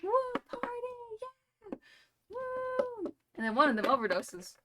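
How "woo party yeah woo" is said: squeaky falsetto party whoop, much higher; mock party whoop. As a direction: whoop it up like a giddy raver in falsetto. Ravers cheering in story.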